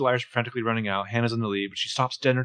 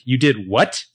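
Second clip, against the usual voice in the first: a louder "You did what?" in a changed voice; shocked outrage; 6 dB louder, slower than usual. Retold or imitated. Girl learns her boyfriend put a tracker on her car, outraged disbelief. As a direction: fire back in disbelief.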